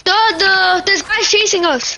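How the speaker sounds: urgent warning while fleeing; being chased. Real, not acted. Fleeing enemies in game.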